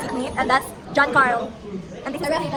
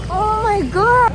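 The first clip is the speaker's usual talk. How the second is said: excited exclamation; 8 semitones higher, 6 dB louder than usual. Real, not acted. Reaching the destination.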